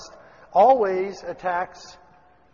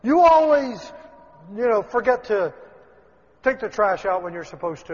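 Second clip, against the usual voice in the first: mock accusation; 3 semitones higher, 6 dB louder than usual. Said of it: "or, uh".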